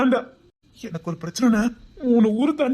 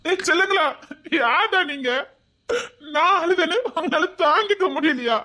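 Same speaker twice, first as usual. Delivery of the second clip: higher, emotional questioning; overwhelmed disbelief; 5 semitones higher than usual. Acted. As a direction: cry it out, moved and incredulous. Overcome by children's concern for him. (நெகிழ்ந்து போன வியப்பு)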